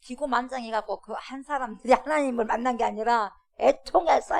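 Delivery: usual speaking voice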